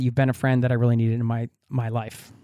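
real emotion catching in the throat, trailing off; getting emotional. Real, not acted. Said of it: "I started getting emotional there".

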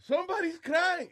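high, slow, drawn-out DJ call; DJ announcer voice. Retold or imitated. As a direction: stretch it like a club DJ on the mic. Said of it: "el disc jockey empieza".

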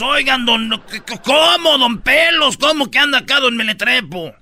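teasing townsfolk. Retold or imitated. Townspeople tease the official.

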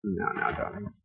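soft, low comforting murmur; soothing. Acted. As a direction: gently hush a grieving loved one. Comforting grieving daughter.

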